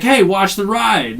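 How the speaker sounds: mock warning. Protagonist warns bullies over car.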